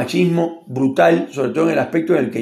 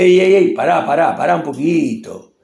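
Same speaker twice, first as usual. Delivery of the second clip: put-on offended boyfriend. Argentine man scolds a friend for praising his woman, mock indignant. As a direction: warn him off, mock offended. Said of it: "porque te dice".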